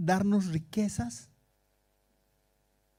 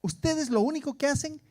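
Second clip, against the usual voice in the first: raised, emphatic mock apostle voice; imitated domineering apostle; 3 semitones higher, 6 dB louder than usual. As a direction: mimic a preacher laying down orders, loud. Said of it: "Así". (imitando a un apóstol mandón, con fuerza)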